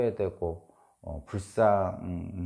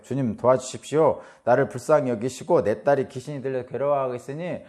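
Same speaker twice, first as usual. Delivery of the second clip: mildly raised, pleading call to the Lord; desperate cry for help; 3 semitones higher, 4 dB louder than usual. Retold or imitated. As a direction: retell a mother crying out, a little louder. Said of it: "막 소리쳤습니다". (간절히 부르짖는 어머니 흉내)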